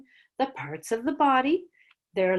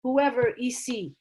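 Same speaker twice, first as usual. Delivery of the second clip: put-on much higher, keen kid voice; student correcting; 10 semitones higher than usual. A keen student correcting the teacher in a much higher voice. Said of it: "students that will say".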